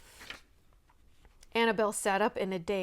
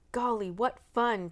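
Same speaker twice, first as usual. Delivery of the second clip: bright chirpy exclamation, a bit higher; chirped; 4 semitones higher, 6 dB louder than usual. A narrator's reading. Boy chirping at a fun plan. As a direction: chirp it out with glee. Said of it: "chirped Warren".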